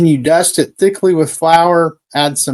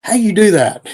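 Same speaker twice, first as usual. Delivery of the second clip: funny Gomer voice; 6 semitones higher than usual. Retold or imitated. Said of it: "that funny voice in Gomer keeps going".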